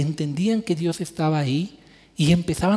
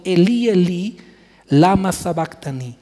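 loud cry to God; 5 dB louder than usual. Retold or imitated. Preacher voicing Jesus crying out to God on the cross, loud anguished cry. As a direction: cry out Elí, Elí in a raised, pleading voice. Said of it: "Jesús clamó a gran voz".

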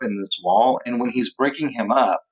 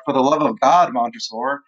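acted desperation. Teacher voices Fortunato begging Montresor for his life, mildly desperate. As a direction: plead with a touch of desperation. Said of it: "like, desperate".

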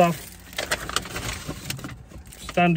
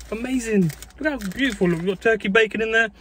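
excited gushing; 5 semitones higher than usual. Real, not acted. Admiring the opened burger.

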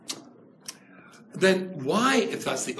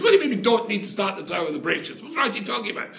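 outraged; 5 semitones higher, faster than usual. Retold or imitated. Voicing Ramban's outrage.

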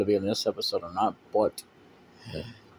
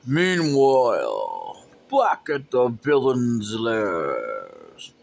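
punchy dramatic comic narration; much slower than usual. Acted. Narrator scene change.

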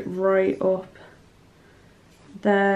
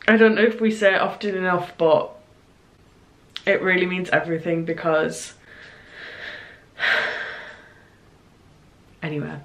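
teary, laughing through tears; choked up but light; tearful; 3 semitones lower, faster than usual. Real, not acted. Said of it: "I need to stop crying".

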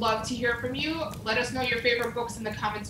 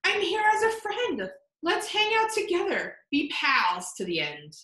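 higher, kind little mouse voice; friendly mouse; 5 semitones higher than usual. Acted. Mouse telling lion they can be pals, friendly small voice. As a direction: offer friendship cheerfully.

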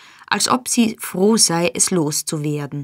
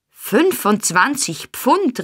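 recoiling, slow and raised; startled exclamation; 6 semitones higher, slower than usual. A narrator's reading. Monks recoiling at the price, startled. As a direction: blurt the sum out, taken aback. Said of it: "rief Monks zurückprallend aus".

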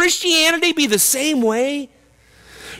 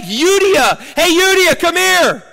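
calling out; 3 semitones higher than usual. Pretend. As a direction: call her over across the room. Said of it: "I beg".

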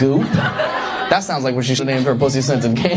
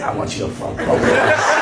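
silly high voice; 12 semitones higher than usual. Pretend. Imagined voice from pressed paw.

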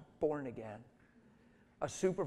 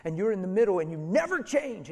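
frustrated supervisor. Retold or imitated. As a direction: let the frustration rise to the end. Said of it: "And he's frustrated on the phone".

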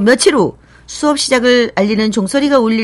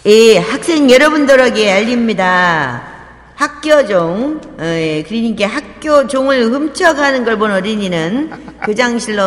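school PA. Acted. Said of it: "학교 방송이 나왔습니다".

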